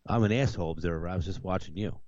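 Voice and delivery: deadpan, dead serious reply; straight face. Retold or imitated. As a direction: say it totally straight-faced. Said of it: "with a straight face".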